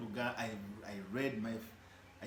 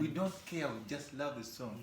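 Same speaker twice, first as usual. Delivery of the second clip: fans quoted; 5 semitones higher, 4 dB louder than usual. Retold or imitated. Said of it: "they like".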